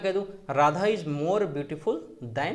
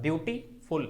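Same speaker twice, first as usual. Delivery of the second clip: "ब्यूटीफुल" with a small gap before फुल; teacher's demo of "ब्यूटीफुल" in two beats; pause inside word; 3 dB quieter than usual. Shown as a demonstration. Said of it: "pause लग रहा है".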